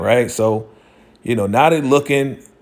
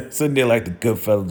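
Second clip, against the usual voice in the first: laughing through the repeat, a bit faster; faster than usual. Real, not acted. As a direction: chuckle while you say it again. Repeats his line laughing.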